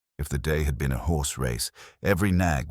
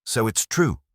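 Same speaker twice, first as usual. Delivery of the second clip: barked; 6 semitones higher than usual. Acted. Inspector barking at Wolf on seeing the book, a sharp bark. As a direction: snap it out like a cop who just caught them. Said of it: "and barked".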